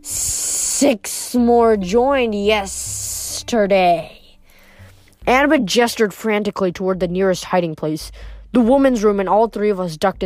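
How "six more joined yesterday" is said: slow, drawn-out serpent voice; reptilian voice. Acted. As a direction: stretch each word like a snake. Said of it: "a reptilian voice came down from the corridor".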